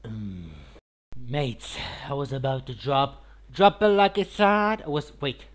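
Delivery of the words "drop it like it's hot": loud, drawn-out line with the voice cracking. Real, not acted. Streamer about to drop a catchphrase, voice cracking. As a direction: belt it slowly until the voice cracks. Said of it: "with a voice crack".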